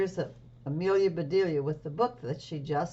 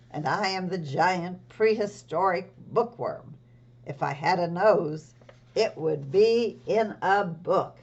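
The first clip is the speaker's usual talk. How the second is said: bookworm creature. Acted. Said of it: "some other creatures who would like to say hello".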